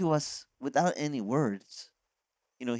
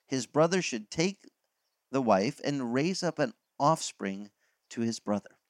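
measured, slowed Bible reading; scripture reading; 2 semitones higher than usual. Acted. Reads the scripture passage aloud.

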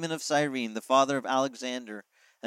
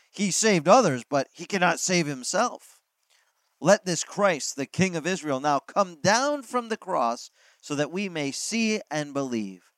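louder, sneering priests' voice; scornful taunt; 3 semitones higher, 4 dB louder than usual. Acted. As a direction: taunt him with contempt. Chief priests mocking Jesus.

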